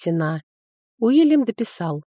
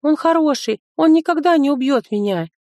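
shouting; 7 semitones higher, 4 dB louder than usual. Acted. Girl protests grandfather's warning.

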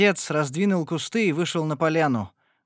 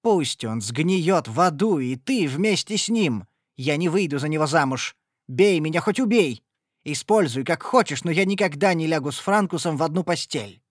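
furious cry; 3 semitones higher, 3 dB louder than usual. Acted. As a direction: hurl your rage at him. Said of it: "вся моя ярость вылилась в крик". (дочь в ярости кричит на отца)

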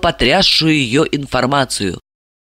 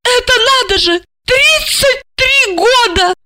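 moaning in disbelief. A narrator's reading. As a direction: stretch out the horror of the number. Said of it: "простонала Ася".

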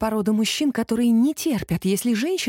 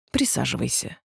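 lower, unhurried male voice; maestro's voice; 7 semitones lower than usual. A narrator's reading. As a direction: speak as the composed maestro inviting her to sit. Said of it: "произнёс маэстро". (низкий спокойный голос маэстро)

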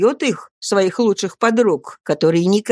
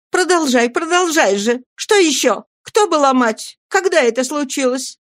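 eager pressing; 9 semitones higher than usual. A narrator's reading. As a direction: push her to go on, breathless. Matron eagerly presses the dying woman.

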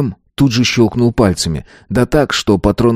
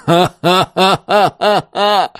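long, high, slow peals of laughter; roaring laughter; 10 semitones higher, much slower than usual. A narrator's reading. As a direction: laugh fit to shake the tomb. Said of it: "гробница вот-вот начнёт сотрясаться".

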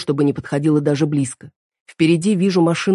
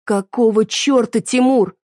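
loud question; 6 semitones higher, slower than usual. Acted. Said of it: "задаёт громко вопрос Кира".

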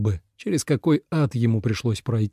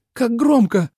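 high, loud complaint; pained exclamation; 11 semitones higher, 4 dB louder than usual. A narrator's reading. Fox covering her ears, crying out high. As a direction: wince and complain at the noise. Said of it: "зажала уши руками".

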